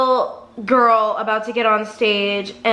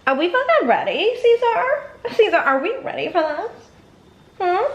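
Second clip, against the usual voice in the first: hyped up; 9 semitones higher than usual. Real, not acted. Hyping up her dog Caesar.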